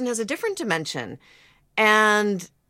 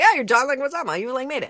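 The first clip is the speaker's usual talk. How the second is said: mock-impressed, pitched up; impressed reaction; 4 semitones higher, faster than usual. Host voicing her awe at the actor, mildly impressed. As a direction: voice a mildly starstruck onlooker.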